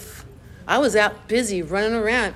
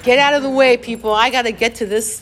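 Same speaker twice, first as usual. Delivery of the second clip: retold shout; 4 semitones higher, 6 dB louder than usual. Pushing through the meeting crowd.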